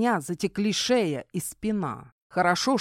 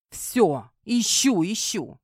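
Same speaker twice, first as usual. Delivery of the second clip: фыркнул, нехотя уступая; недовольно фыркни, как кот; фыркая; 4 semitones higher, slower than usual. Acted. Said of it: "фыркнул кот". (кот фыркает, недовольно)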